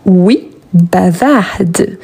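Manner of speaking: "bavarde" said slowly with a clear final d; "bavarde" with the d stretched out; slow sounded d. Shown as a demonstration. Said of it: "on prononce le D".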